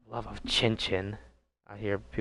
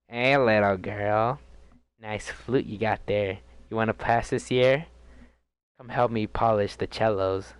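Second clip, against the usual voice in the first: creepy teacher. Retold or imitated. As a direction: drag the words like a sleazy mock teacher. Mocking predatory teacher.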